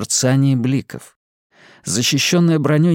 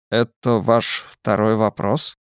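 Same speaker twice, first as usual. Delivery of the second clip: mysterious man; slower than usual. Acted. Lazarus dry.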